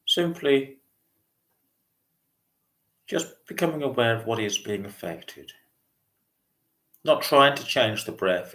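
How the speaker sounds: calm meditation guide, long pauses between phrases; unhurried mindfulness voice with spacious pauses; guided meditation. Real, not acted. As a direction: gently lead a breathing meditation, leaving lots of silence. Leads a body scan meditation.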